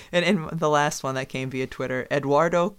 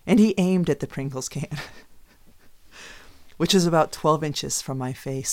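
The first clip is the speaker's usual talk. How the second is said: dramatic reading. Pretend. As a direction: overplay the drama of the story. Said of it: "It would be something like this".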